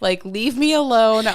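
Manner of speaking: mock-annoyed, voice rising; half-serious fed-up plea; retold irritation. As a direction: replay pushing a partner away, slowing down. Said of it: "I'm so mad at you".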